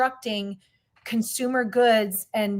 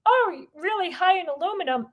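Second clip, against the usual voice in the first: mock test result; 8 semitones higher than usual. Mock blood test result quote.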